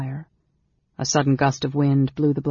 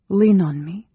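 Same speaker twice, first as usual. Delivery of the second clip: higher, louder woman's line; offering support; 5 semitones higher, 5 dB louder than usual. A narrator's reading. Amberol props up the weak mage, supportive and higher.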